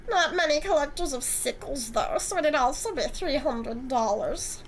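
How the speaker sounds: a lightly voiced smug, flirty antique dealer; smug Eric.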